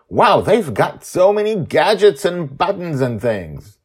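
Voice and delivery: put-on high, loud wowed boy; amazed kid. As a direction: marvel at all the gadgets. Charlie amazed at gadgets.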